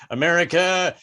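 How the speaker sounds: lightly voiced radio evangelist; a hint of a Southern preacher's sales patter; Jesus radio preacher. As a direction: pitch Jesus like a radio cure, building at the end. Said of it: "every other station is a Jesus station".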